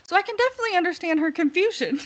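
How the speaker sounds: mock-sincere snark; catty quote. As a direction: build to a catty zinger. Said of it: "she said".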